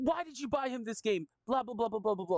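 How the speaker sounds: very high, furious yelling, acted out. Retelling a mom confronting a dad over a game: imitating a furious yell. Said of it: "furious, like, yelling".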